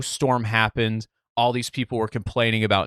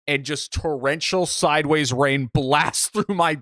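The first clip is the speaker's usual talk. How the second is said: laughing while telling; 5 semitones higher than usual. Real, not acted. Laughing while recounting rain soaking.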